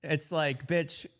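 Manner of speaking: laughing through the words, slow; real laughter spilling into it; laughing in disbelief at the clip. Real, not acted. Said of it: "I'm laughing because".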